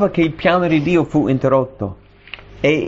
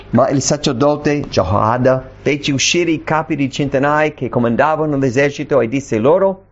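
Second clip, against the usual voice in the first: normal talking voice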